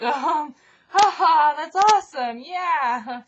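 high, loud awkward laughing reply; nervous laugh. Retold or imitated. Awkward reply to kill threat.

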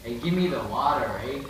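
lightly put-on Canadian accent; casual mock Canadian with a tagged "eh". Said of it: "Okay, try Canadian".

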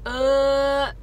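talking around a painful canker sore; with a mouth ulcer. Real, not acted. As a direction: speak carefully through a sore mouth. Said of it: "I'm talking a little weird".

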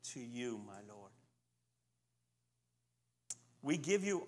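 earnest spoken prayer, softening toward the ends; closing prayer. Acted. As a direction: pray it out with reverence, letting each Father fade.

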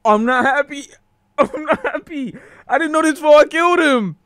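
high laughing protest; laughing dismay. Real, not acted. Streamer laughing after his fighter dies, high dismay. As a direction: laugh through the guilt. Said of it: "Bro, I'm crying".

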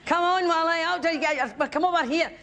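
a hint of a tipsy wife nagging Wally; lightly voiced drunk heckler. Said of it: "chemically inconvenienced, severely refreshed".

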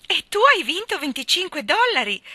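high, loud jubilant cry; celebrating the prize; festive. A narrator's reading. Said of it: "continuò festante Diana". (esultante e squillante)

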